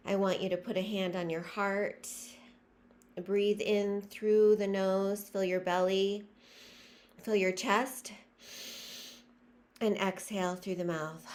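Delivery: measured meditation leading with long pauses; guided breathing meditation. Real, not acted. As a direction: guide listeners breath by breath, letting phrases stretch.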